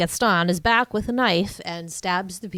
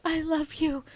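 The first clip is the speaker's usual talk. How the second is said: Belle's confession; 9 semitones higher, 4 dB quieter than usual. Retold or imitated. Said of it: "she's like".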